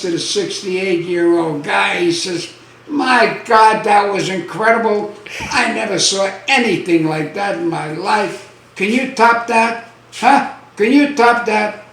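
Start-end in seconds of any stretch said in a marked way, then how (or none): 2.9-11.8 slightly raised, amazed joke voice; mock astonishment, pitched up on the challenge. Lion owner to the sixty-eight-year-old guy, amazed.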